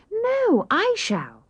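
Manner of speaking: excited cry. Acted. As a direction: blurt it out like an eager little sister. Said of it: "cried Amy".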